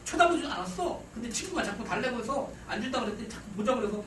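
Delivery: lightly voiced aggrieved boy; a hint of a protesting teenager; son explaining himself. Son pouring out grievance to dad.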